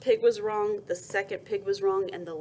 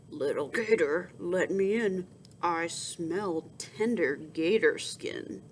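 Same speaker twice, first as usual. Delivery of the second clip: big bad boar; 3 semitones lower, slower than usual. Boar voice at the door.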